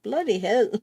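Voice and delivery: mock British exclamation; a lightly put-on British nephew; imitating nephew. Aunt quoting her nephew's favorite curse, mock British. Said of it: "He's constantly like".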